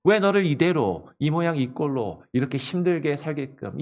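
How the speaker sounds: acted jeer, starting loud and high then easing down; mocking challenge. Unbelievers questioning a believer's God, mockingly. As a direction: challenge their faith with mild scorn. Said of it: "비웃으며 조롱하더라라는 것이에요".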